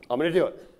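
imitated resolve starting to build; growing resolve. Smoker warms to making the call, growing resolve. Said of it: "He gets all fired up".

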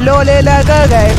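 loud, very slow stretched syllables; drawn-out wail. Real, not acted. Gamer under sudden attack, slow loud wailing. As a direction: wail it out slowly, word by word.

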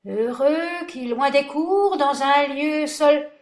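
high, slow, faltering verse; shaky voice. Acted. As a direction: recite unsure of yourself. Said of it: "d'une voix mal assurée".

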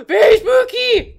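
high, startled yell after a gasp; sudden loud outburst; really loud. Real, not acted. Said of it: "that was really loud on the audio".

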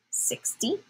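whispered hint. Real, not acted. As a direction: breathe the answer softly.

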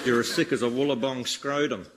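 broad mock Australian accent, hammed-up; comedy Australian accent, lightly done. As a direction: lay on a thick Aussie ocker accent. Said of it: "I'm Australian, mate".

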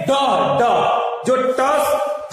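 ड from the roof of the mouth; slow model sounds. Shown as a demonstration. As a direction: stretch ड, ड and ट slowly. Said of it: "मूर्धा से आवाज निकाल". (मूर्धा से ड बोलें)

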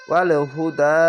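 ওয়াল হুদা recited with a lengthened last vowel; one-alif stretch. Shown as a demonstration. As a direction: draw out the final "daa" of ওয়াল হুদা. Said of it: "এক আলিফ টেনে পড়বেন".

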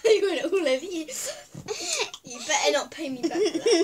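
laughing. Real, not acted. Laughing after splashing friend.

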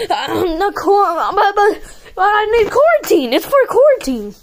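high, giggly begging; laughing plea. Pretend. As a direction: plead through laughter.

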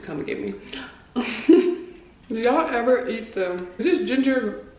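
speaking between bites; talking while chewing. Real, not acted. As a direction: mouth partly full. Seen 1: Food put in mouth at 0.1; chews while talking; ginger eaten later.

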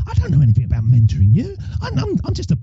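high, soft panicky protest; mock panic. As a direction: act out a panicked beginner's self-doubt. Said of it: "kind of a big panic part".

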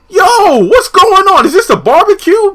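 high and loud, hyped shock; loud high hype; hype disbelief. Retold or imitated. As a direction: call it out like the fight just started. Narrator reacting to Pam's outburst.

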